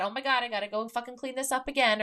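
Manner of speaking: hammed-up exasperation over a chore; annoyed. Imagined spouse grumbling about cleaning up, mock annoyed. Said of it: "annoyed that".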